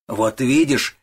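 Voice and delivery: gloating I-told-you-so; exultant cry, voice jumping up; triumphant. A narrator's reading. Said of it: "ликовал Пиннеберг".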